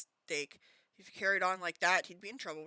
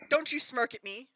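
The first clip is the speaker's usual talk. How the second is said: put-on loud, higher scolding of the boy; booming; 6 semitones higher, 8 dB louder than usual. A narrator's reading. Aunt booms at smirking nephew, loud and high. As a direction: boom it out at him. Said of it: "boomed Aunt Marge".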